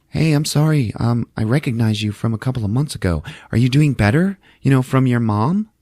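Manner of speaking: a hint of a gentle older woman; kind old lady. Kind stranger Joan voiced.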